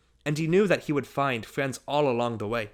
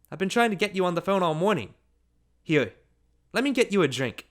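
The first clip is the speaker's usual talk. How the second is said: higher-pitched hostess voice; delighted hostess; 6 semitones higher than usual. A narrator's reading. Mrs. Graham welcomes an unexpected guest, delighted. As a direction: greet a guest with delighted surprise.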